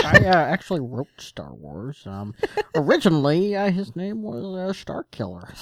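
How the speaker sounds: halting director impression, tickled; hesitant, uh-laden reminiscing; George Lucas. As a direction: answer haltingly as a famous filmmaker. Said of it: "So George, tell us".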